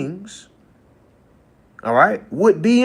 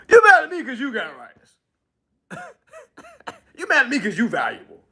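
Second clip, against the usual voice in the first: laughing through the words; can't keep a straight face, laugh as you say it; 7 semitones higher, 3 dB louder, faster than usual. Real, not acted. Repeats line laughing.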